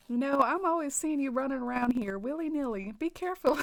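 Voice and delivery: put-on lightly done Southern country accent, dropping the G's; a hint of a Southern accent for a cranky villager scolding; mild put-on Southern country accent, half-hearted; country twang. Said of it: "read the Crankies in a true country twang".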